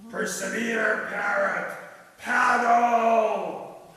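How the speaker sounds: loud shouted urging over the storm; cried out. A narrator's reading. Pirate urging his parrot through the storm, shouting. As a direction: yell it to be heard over the waves. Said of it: "cried the pirate".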